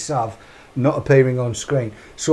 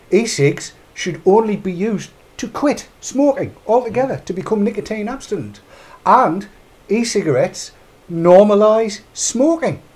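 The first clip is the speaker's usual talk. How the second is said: mock Glenys Wilmot quote; 4 semitones higher than usual. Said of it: "That's Glenys Wilmot".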